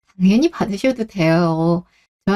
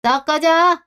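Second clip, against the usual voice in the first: higher, furious cursing of her son; mother curses her son as he leaves, higher; angry scolding; 7 semitones higher than usual. Acted. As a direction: chase him off with a curse. Mother chasing son away.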